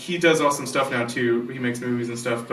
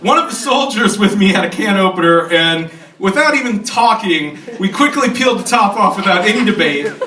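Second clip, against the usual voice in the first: droll reading, pitched higher as the tale climaxes; Steve Metz; 5 semitones higher than usual. Retold or imitated. Reading the advisor's beloved bacon story to old friends, droll. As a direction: read out a tall tale with droll relish. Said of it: "Steve's voice, which is extremely droll".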